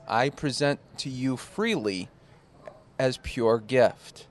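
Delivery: slow, solemn scripture reading; mock biblical speech. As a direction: read it slow like a sermon. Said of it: "In a biblical voice or".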